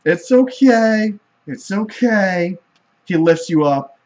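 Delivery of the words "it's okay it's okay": slow gentle comfort; soothing. Acted. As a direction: hush a crying child slowly. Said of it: "The god's like".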